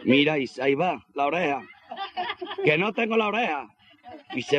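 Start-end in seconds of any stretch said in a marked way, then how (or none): 2.6-3.7 high-pitched comic dismay; mock alarm. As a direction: act shocked at a missing ear. Injured man finds ear missing.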